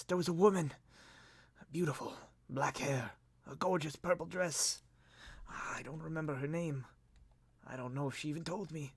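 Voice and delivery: soft, high, halting recollection; cracked, broken voice. Acted. Lord remembering a mysterious woman, weak voice. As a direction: dreamily piece together a faint memory. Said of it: "cracked and broken".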